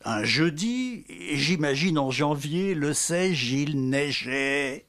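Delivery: declaimed sound poem, every V, Z and J sung out; poème sonore déclamé. Acted. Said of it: "Je vais vous faire un poème sonore". (déclamation sonore, consonnes V, Z, J appuyées)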